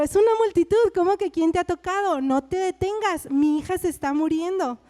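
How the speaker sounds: desperate protest. Acted. Jairo urging Jesus on to his dying daughter, mildly desperate. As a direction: protest with mild, acted desperation. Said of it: "Así desesperado".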